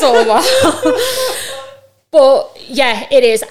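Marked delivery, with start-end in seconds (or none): 0.5-1.8 short bright laugh at her own joke. Real, not acted. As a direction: burst out laughing.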